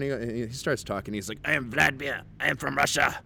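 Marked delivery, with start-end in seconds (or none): 1.5-3.2 higher-pitched put-on Russian accent; stereotypical Russian accent. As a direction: imitate a tough guy with a thick Russian accent. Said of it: "I'm talking stereotypically Russian guy".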